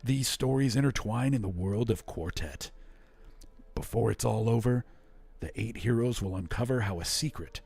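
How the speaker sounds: dramatic movie trailer narration. Shown as a demonstration. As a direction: sell it like a film trailer announcer. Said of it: "movie trailer voice for this one".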